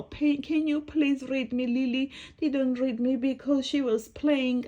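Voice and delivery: a hint of an imploring little character; pleading storybook book. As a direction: plead with a would-be reader.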